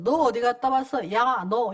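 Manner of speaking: blunt husband. Retold or imitated. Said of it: "완전히 경상도 문화가 있잖아요".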